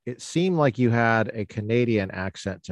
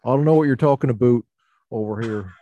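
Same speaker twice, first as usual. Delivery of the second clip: mock Southern accent; 4 dB louder, faster than usual. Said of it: "they have a Southern accent".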